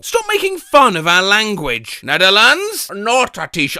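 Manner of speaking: half-hearted attempt at a Dutch accent; badly faked Dutch accent. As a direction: try and fail at a Dutch accent. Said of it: "I can't do a Dutch accent at all".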